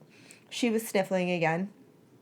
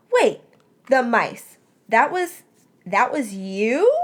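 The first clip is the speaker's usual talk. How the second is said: astonished; 3 semitones higher, 6 dB louder, slower than usual. A narrator's reading. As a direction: gasp out the realization. Melody astonished by confession.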